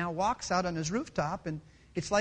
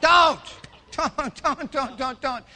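high, sharp, very loud shout; urgent warning; 5 semitones higher, 9 dB louder, slower than usual. Real, not acted. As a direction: shout it to stop them. Preacher cries warning against calling.

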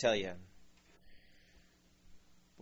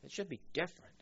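higher, softer imitated gripe; mock complainer; 4 semitones higher, 8 dB quieter, faster than usual. Repeating the church complainers' line, soft mock griping. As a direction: echo a complainer in a small high voice. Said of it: "they even say it like that".

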